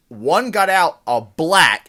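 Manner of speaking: loud yelled quote; mock yell. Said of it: "points and yells".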